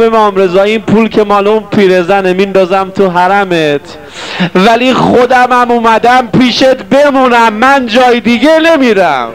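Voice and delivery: rising pleading call at the shrine; bellowing plea. Retold or imitated.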